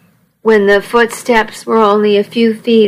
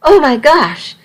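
high, rushed, excited babble; excited gushing; 5 semitones higher than usual. Acted. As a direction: gush it out, barely breathing. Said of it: "She was speaking at triple speed".

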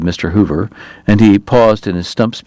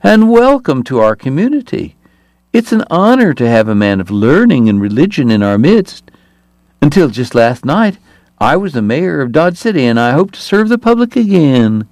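much higher, reedy-pitched big man; startling high voice; 5 semitones higher than usual. Acted. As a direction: let a huge man squeak out a greeting. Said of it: "in a startling high voice".

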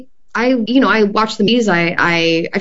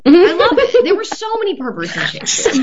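much higher, laughing through the words; laughing delight; 11 semitones higher than usual. Real, not acted. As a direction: giggle it out in delight. Laughing about playing perverts.

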